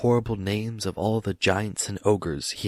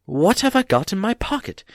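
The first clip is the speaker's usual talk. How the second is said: much higher, louder insistence; 12 semitones higher, 5 dB louder than usual. A narrator's reading. Bilbo repeats his question to Gollum, louder. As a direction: press the question harder. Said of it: "he said louder".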